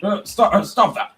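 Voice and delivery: loud stern telling-off; scolding. Acted. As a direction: scold like a strict stationmaster. Scolding like a strict engine.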